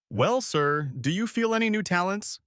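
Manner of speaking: curious question, pitch lifting on the end. A narrator's reading. Soldier leaning closer to Drillhead, curious. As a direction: ask with keen interest. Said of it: "asked curiously".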